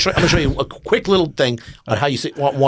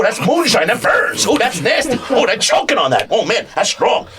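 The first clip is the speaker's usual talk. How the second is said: excited. Acted. Shots suggestion.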